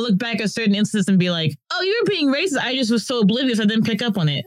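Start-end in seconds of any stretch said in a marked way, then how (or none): 1.7-4.4 higher-pitched retold dawning realisation; lightly acted, high "oh" of discovery. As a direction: play back the moment it clicks, pitch jumping up. Acting out a belated realisation.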